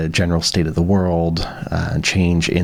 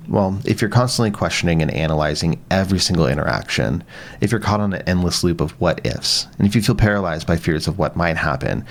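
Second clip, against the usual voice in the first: scripted podcast ad read with livelier, rising-and-falling intonation; sponsor ad read. Real, not acted. Podcast host tells listeners about today's sponsor, ad read. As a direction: read the sponsor copy smoothly and clearly, lifting key phrases.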